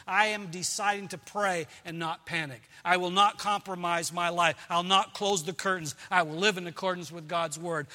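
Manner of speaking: loud, resolute vows from the pulpit; preacher leading resolutions; preaching declarations. Acted. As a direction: declare each vow firmly. Declarations of faith.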